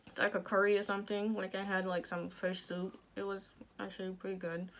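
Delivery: speaking with jaw wired shut; words pushed through clenched teeth; talking through teeth. Real, not acted. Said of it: "I talk through my teeth".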